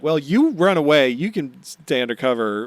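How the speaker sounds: loud, defiant retort. Retold or imitated. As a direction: brush him off with resolve. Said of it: "And Robin's like".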